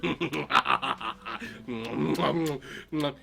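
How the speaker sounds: long low chuckle; gloating wolf laugh. Acted. Wolf pleased with stolen muffins, low gloating laugh. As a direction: chuckle greedily, low in the throat.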